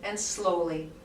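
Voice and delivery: calm guided movement voice with unhurried pauses; guided relaxation. Acted. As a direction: lead the class gently through the movement. Guides a guided body-awareness session.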